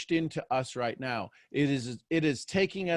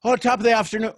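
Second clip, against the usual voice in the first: loud, high, hammed-up Irish greeting; Irish accent; 8 semitones higher, 6 dB louder, much faster than usual. Shown as a demonstration. Showing a friend back from Europe, mock Irish accent. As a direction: put on a playful Irish accent. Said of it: "I could do an Irish accent".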